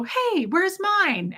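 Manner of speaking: hoog en traag stemmetje van de hond; imitating the dog, high and slow, begging; dog's voice. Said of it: "And Bo would go".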